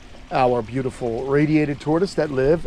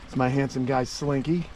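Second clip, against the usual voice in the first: soft pet talk; 2 semitones lower, 5 dB quieter than usual. Real, not acted. Cooing to pet.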